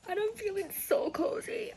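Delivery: high, whispered "so cozy" through a laugh; giggly whisper. Real, not acted. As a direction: breathe it out with a delighted giggle. Snug in the shed, giggling.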